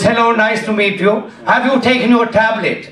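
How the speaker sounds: mock Indian doctor; Indian accent. Doctor checking on his patient, Indian accent. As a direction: greet in a put-on Indian accent. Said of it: "He was an Indian doctor".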